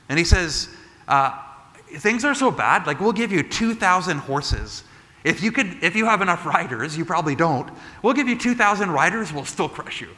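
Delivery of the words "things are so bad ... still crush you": high, mocking taunt from the enemy. Assyrian envoys taunting King Hezekiah, high mocking sneer. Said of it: "So they're taunting".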